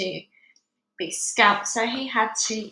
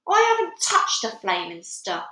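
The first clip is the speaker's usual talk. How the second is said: shouted; 5 dB louder than usual. Acted. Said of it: "Mister Wormwood shouted".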